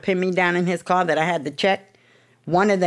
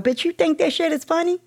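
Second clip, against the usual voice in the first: retold confrontation; 12 semitones higher than usual. Confronting the laughing sponsor.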